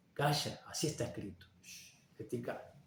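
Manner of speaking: soft hush, fading to a whisper; a quiet shh from God. Retold or imitated. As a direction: shush him gently. God hushes Moses.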